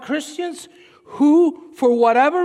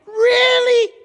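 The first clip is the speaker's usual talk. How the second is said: loud, high, disbelieving shout; high shouted comeback, mock outrage; incredulous yell; 9 semitones higher, 5 dB louder than usual. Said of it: "I wanna scream, I wanna yell".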